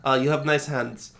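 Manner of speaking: mildly imitated Filipino accent; careful, lightly put-on Filipino accent. Filipino agent reassuring a client, Filipino accent. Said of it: "The Filipinos are like".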